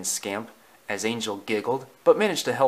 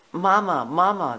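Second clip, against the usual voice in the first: puppies calling; 6 semitones higher than usual. Acted. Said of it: "they called".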